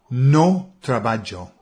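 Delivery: slow "No trabajo", loud on "No"; imitating a learner. Imitating his English coworker, slow. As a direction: mimic an English colleague, slowly. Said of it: "Ella decía".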